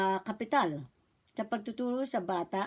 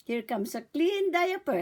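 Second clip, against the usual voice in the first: put-on talking to a baby; 3 semitones higher than usual. Shown as a demonstration. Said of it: "Sasabihin niyo po".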